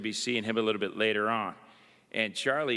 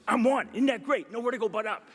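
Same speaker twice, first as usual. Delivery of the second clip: much higher and louder, bursting with glee; giddy excitement; 12 semitones higher, 4 dB louder, faster than usual. Retold or imitated. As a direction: gush it out like a thrilled kid. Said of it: "He's so excited".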